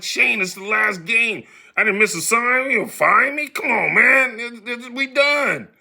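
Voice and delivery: high, whiny protest at being called in; pleading protest. Retold or imitated. To the manager, a high whiny protest. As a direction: whine that the season's done.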